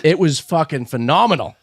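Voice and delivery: slight Boston accent; a hint of Boston in the vowels. Real, not acted. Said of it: "Your Boston accent came out".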